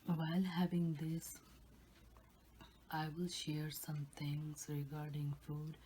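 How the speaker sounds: ASMR whisper. Real, not acted.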